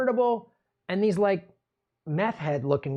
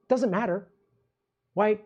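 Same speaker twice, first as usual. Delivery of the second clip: ordinary talk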